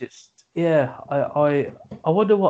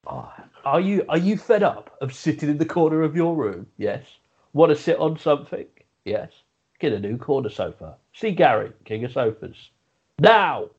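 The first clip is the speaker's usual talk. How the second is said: mock advert. Mock radio advert for sofas.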